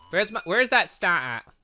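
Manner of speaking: ordinary delivery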